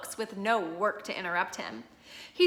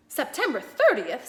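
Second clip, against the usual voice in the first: excited; 4 semitones higher, 5 dB louder than usual. Acted. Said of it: "in an excited tone".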